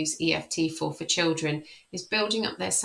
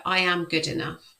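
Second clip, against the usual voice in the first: affirmation. Shown as a demonstration. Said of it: "you can say things like".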